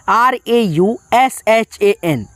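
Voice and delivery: slow spelling out. Shown as a demonstration. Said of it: "R A यू लिख दीजिए".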